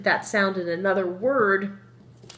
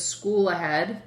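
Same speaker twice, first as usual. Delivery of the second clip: slow sign reading; slower than usual. Shown as a demonstration. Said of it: "This says".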